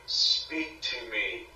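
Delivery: slow, drawn-out call to a spirit; Peter's slow summons. Retold or imitated. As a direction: lightly imitate a slow séance summons. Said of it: "like Peter would".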